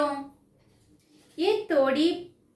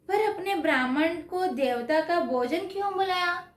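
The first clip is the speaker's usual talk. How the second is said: amazed wife; 5 semitones higher than usual. Acted. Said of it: "हैरानी होकर बोली".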